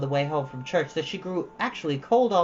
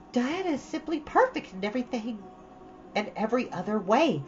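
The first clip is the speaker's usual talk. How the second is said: lightly voiced dreamy girl, rushing on; Anne, chattering eagerly; 4 semitones higher than usual. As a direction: gush to Marilla about her playhouse.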